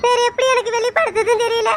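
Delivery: a wife's hurt crying; tearful crying. Acted. Wife tells her husband why she cries, tearful. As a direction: speak through tears. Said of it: "எதுக்கு இப்ப அழுகுற".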